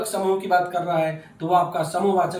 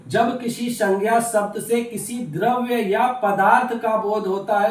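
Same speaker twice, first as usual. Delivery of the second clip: slow, loud, deliberate definition; emphatic dictation; 2 semitones higher, 5 dB louder than usual. Real, not acted. Teacher asking students to listen closely, emphatic dictation. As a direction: spell it out word group by word group.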